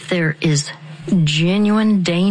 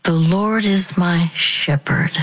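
soft guided whisper. Shown as a demonstration. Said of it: "And then deep breath".

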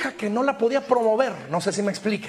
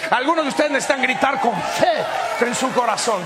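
the same line pushed out louder as a shout. Shown as a demonstration. Preacher urging the church to shout with faith, louder. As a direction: raise your voice and call it out. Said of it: "gritar más fuerte".

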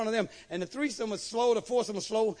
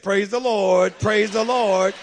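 booming praise the Lord; loud praise; 3 semitones lower, 10 dB louder, slower than usual. Retold or imitated. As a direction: shout it out like a church amen. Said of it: "Brother Cleve said".

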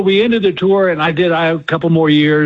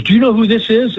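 excited fan; 6 semitones higher than usual. Retold or imitated. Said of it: "she goes".

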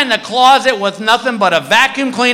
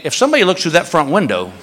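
laughing; 4 semitones lower, faster than usual. Real, not acted. Laughing through own punchline.

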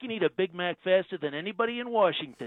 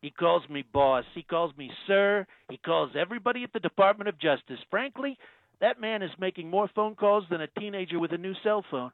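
Trump impression. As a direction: play the president, smug and self-assured. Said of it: "Donald Trump".

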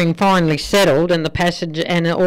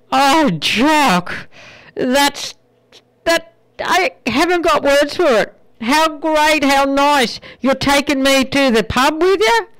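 higher, thrilled little wife's voice; delighted Scottish wife; 7 semitones higher than usual. Acted. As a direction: gush like a wife who thinks she's finally going out. Wife Maggie voiced in joke.

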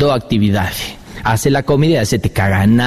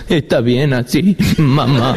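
put-on sweet kid; slower than usual. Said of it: "decía".

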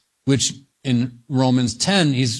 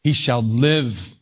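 LIVE drawn out slowly; slow reading that settles on "live"; stress on LIVE; 3 semitones lower, slower than usual. Shown as a demonstration. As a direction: linger on the word "live". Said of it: "Emphasis on the word".

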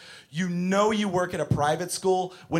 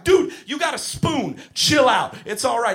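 exasperated teacher; 7 semitones higher, 4 dB louder than usual. Retold or imitated. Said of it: "I'm like".

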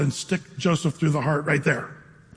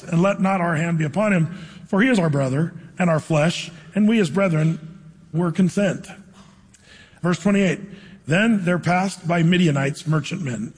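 measured, deliberate Bible reading; scripture reading. A narrator's reading. Preacher reads Genesis aloud to the congregation, measured scripture reading. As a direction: read scripture aloud with weighted phrases.

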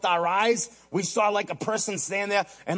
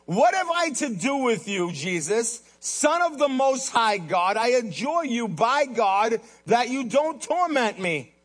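raised, drawn-out plea to Jesus; loud cry; 5 semitones higher, slower than usual. Acted. Possessed man begging Jesus not to torment him, moderately loud cry. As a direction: cry it out slowly, pitch lifted. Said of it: "he cried with a loud voice".

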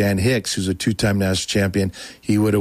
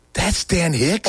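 shocked realization; 7 semitones higher, much slower than usual. Retold or imitated. Teen learns the stranger was the champion, shocked shout. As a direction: yelp it out in disbelief.

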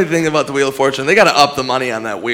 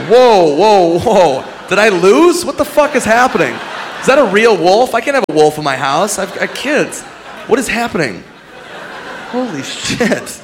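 high, alarmed mock panic; panicked contestant; 6 semitones higher than usual. Contestant panicking after being handed a wolf. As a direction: freak out like a scared winner. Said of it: "It's like".

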